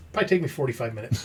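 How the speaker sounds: laughing. Retold or imitated. Mocking the slow electrician.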